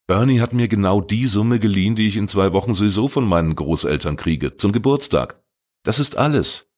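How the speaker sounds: put-on a defensive teen talking himself up; teenage boy Arne.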